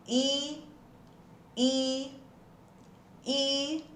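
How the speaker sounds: a held, stretched I vowel; drawn-out I sound. Shown as a demonstration. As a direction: model the I sound for the class. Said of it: "Já vai falando as palavrinhas, ó". (som de I prolongado)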